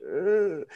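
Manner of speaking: high, uneasy groan of a grimace; grimacing "ugh". Acted. Fan reacting to a Tyler Lockett trade, grimacing groan. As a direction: voice a cringe as a wordless "ugh". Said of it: "grimace face".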